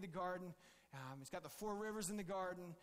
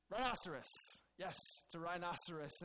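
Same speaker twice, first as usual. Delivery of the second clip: a louder, pleased announcement of the name; name it like a proud discovery; Adam naming the rhinoceros, pleased with himself; 4 dB louder than usual. Pretend. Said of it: "the next one comes out".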